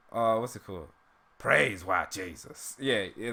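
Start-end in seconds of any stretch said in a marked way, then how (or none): 1.4-2.8 slow, drawn-out cartoon character take; Uncle Ruckus impression. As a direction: stretch the words out in a put-on character voice. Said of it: "that's kind of how he says it".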